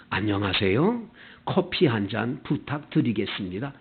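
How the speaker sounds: low, courteous order with a greeting; polite greeting. Acted. Customer greets café staff and orders, politely. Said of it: "다 친절해".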